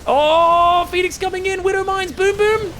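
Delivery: high-pitched live action call; excited play-by-play. Real, not acted. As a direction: call the attack as it hits. Live call of a sudden attack.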